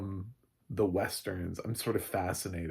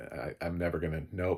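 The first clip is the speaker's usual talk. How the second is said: usual speaking voice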